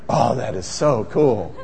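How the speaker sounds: soft, slow, teasing awe with a chuckle; mock marveling. Pastor teasing the congregation about the slide, lightly mock awed. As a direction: playfully imitate the bored crowd pretending to be amazed. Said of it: "just going".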